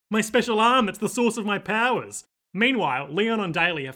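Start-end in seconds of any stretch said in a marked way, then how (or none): 0.1-2.2 mocking Pris. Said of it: "mocking Pris".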